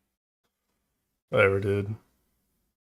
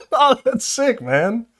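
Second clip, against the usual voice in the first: mock enthusiastic; 12 semitones higher, 5 dB louder, slower than usual. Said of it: "they want you to go".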